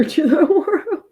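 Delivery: conspiratorial whisper. Pretend. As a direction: whisper it like a secret evil plan. Joking about world domination.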